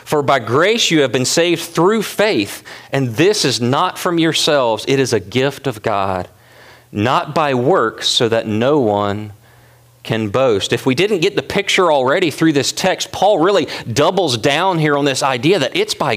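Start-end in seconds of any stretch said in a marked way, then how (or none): 0.0-10.7 scripture reading. Acted. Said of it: "He brings this grace idea back".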